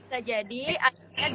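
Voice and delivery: choppy connection cutting out; breaking up space radio. Real, not acted. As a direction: voice breaking up on a bad line. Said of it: "Masih agak putus-putus dikit ya".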